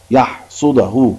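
يحصده very slowly, in separate syllables; slow dictation. Shown as a demonstration. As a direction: spell out يحصده by sound, part by part. Synonym dictated slowly to pupils. (نطق يحصده ببطء مقطعًا مقطعًا)

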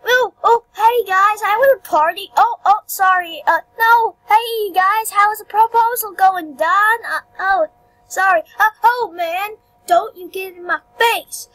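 high, loud, excitable cartoon voice; pretend game character. Game character greeting the guys and bumping in, high excited voice. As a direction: play an over-eager character barging in, high and loud.

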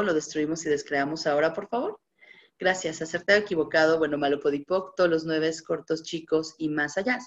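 smooth, practised litany of words; ritual clearing recitation. Acted. Facilitator reciting the clearing statement to her audience, steady chant.

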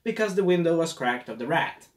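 bossy boss. Retold or imitated. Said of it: "she's like".

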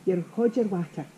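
"hod" for hold, run into "your"; Glaswegian pronunciation. Shown as a demonstration. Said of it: "so I can't say".

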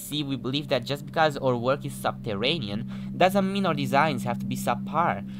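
mock-formal corporate reading, lilting pitch; pamphlet read-aloud. Player reading a CEO's pamphlet greeting, mock-formal. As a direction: read it out like a proud company message.

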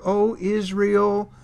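drawn-out, pleading call to Israel; loving plea. Acted. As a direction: plead tenderly, stretching out the opening call. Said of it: "begins with this loving plea".

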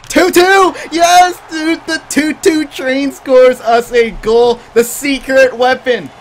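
high, loud, drawn-out cheer; goal celebration. Real, not acted.

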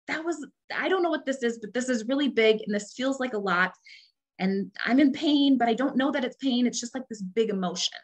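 lightly voiced child, bewildered; distressed toddler. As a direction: speak as a small child hit by a big feeling. Voicing a toddler's confused pain.

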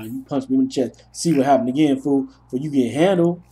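a hint of playground threat, puffed up; mock tough talk. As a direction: act tough without really meaning it. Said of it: "I'm gonna sound tough about it".

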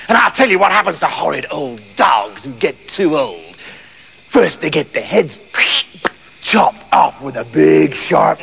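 low, menacing farmer relishing a threat; hint of a cruel master spelling it out; lightly voiced horrible farmer. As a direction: gloat over a grisly threat.

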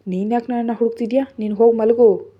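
husband angrily sends his wife to bed; angry. Acted. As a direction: snap at her to go to bed. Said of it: "ಅವನು ಕೋಪದಿಂದ ಹೇಳ್ತಾ".

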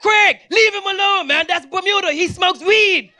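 high, loud, friendly shouting; hammed-up gang guys cheering him; excited gang greeting. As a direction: greet him like an old buddy. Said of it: "So they're like".

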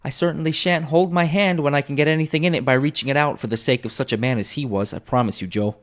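coolly. A narrator's reading. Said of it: "returned the woman coolly".

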